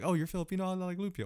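mock white-folks voice. Host imitating what white folks say every time, mock voice. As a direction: mimic them in a high, put-on voice. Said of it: "that's how they talk".

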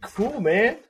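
high, startled cool man, what; puzzled surprise. Retold or imitated. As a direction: caught off guard, half-amused and confused. Nagamine bursts in with news.

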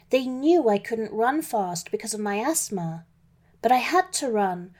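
usual speaking voice

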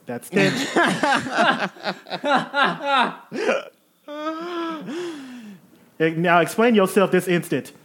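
fussy genteel lady. Acted. Eve again.

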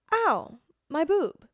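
high, slow, hammed-up whine of pain; mock pained ow. Retelling being hit in the chest, whining mock pain. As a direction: draw out the ow like a wounded complaint. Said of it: "And I was like".

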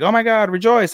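high-pitched imitation of a rejoicing crowd; mock jubilation. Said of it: "all the Funato are very happy".

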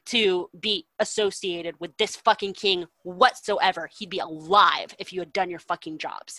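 loud, angry telling-off of cowards; furious rant. Retold or imitated. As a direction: chew the soldiers out, full of scorn. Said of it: "he's just, like, furious".

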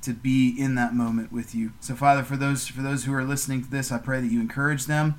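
steady, earnest prayer voice; gentle podcast prayer to God; closing prayer. Real, not acted. Prayer continues.

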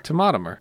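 "Tomotomer" squashed into four syllables; mispronounced tomatometer. Shown as a demonstration. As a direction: say "Tomotomer" with a dropped syllable, to-MO-to-mer. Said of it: "There's an extra syllable in there".

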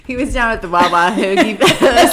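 put-on a weak Philly accent through laughter; half-hearted Philly accent; Philly accent, barely held; Philadelphia accent. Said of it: "I'm not doing this well".

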